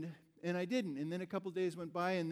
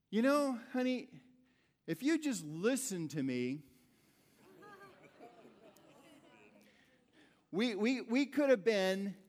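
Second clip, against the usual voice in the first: lecturing tone; 3 semitones higher, 4 dB louder than usual. Retold or imitated. Father lecturing daughter on ridge.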